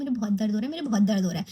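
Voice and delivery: low, mild moaning complaint of pain; a low, half-hearted whimper about the hurt foot; complaining of pain. Retold or imitated. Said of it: "मैं बोल रही हूँ". (धीमी आवाज़ में दर्द की शिकायत)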